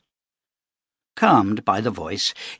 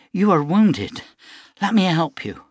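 put-on higher, sweet apologetic girl voice; young girl, apologetic; 7 semitones higher than usual. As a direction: play the pretty farm girl saying sorry. Young girl offers help.

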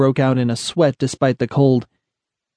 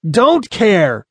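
higher-pitched defiant growl; 7 semitones higher, 3 dB louder than usual. A narrator's reading. Tough brushes off a warning about the boy, growled. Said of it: "Tony growled".

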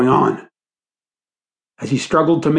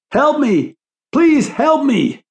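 high, desperate plea for help; pained, high-pitched begging; pain-filled cry; 12 semitones higher, slower than usual. A narrator's reading. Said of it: "The pain-filled voice pierced".

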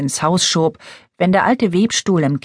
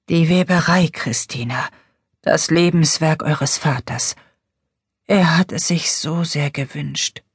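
faint whisper. Acted. Dying mother whispers.

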